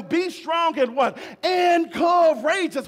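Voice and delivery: rising shout on courageous, slowed down; preached shout. Acted. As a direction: call out like a preacher building. Preaching call and response.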